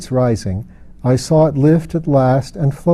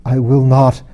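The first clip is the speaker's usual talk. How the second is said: forced out through gritted teeth, a touch louder; through clenched teeth; 4 dB louder than usual. Acted. Lilith refuses Mara through clenched teeth. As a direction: spit the refusal past locked jaws. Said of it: "forcing the words through her clenched teeth".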